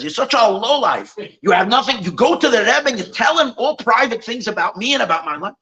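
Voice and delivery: mildly heated, accusing tirade; mock yelling. Boss accuses teacher of tattling to the Rebbe, mock yelling. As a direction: retell an angry accusation without really shouting. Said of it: "He starts yelling at the teacher".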